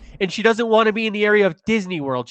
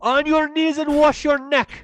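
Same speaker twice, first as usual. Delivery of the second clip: menacing executioner; 9 semitones higher than usual. Acted. Executioner threat, acted.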